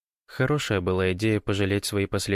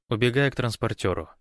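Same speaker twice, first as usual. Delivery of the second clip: ordinary talk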